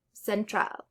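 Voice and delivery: central stressed on TRAL, cenTRAL; stress on last syllable. Shown as a demonstration. Teacher giving learners an example, stressed cenTRAL. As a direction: lean on the final TRAL of central. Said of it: "stress on the very last syllable".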